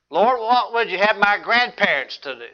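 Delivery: pointed question leaning on "grandparents"; stress on GRANDPARENTS. Shown as a demonstration. Preacher misquoting Saul to make a point, stress on grandparents. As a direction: punch "grandparents" as the wrong word. Deliberate misquote continues the list.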